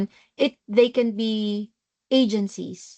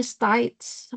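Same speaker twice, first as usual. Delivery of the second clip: "states" said as "stites", mimicking an Australian; mock-Australian "stites"; Australian accent. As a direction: imitate the client's Australian vowel in "states". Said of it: "iba talaga yung accent niya".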